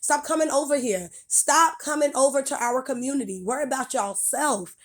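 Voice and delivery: furious lecture; angry rant. Real, not acted. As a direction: let it all out at them. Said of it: "That's why I spoke angrily".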